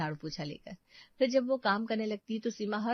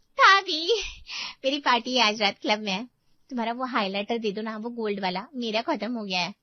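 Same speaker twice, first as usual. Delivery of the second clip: put-on cheerful young girl; 4 semitones higher, 5 dB louder than usual. Excited young sister-in-law asks.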